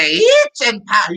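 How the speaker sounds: itching powder squealed way up high; slow, shocked high note; squeaky high shock. Retold or imitated. Mister Benton squeals at the kid's request, shocked high. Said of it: "He went way up there".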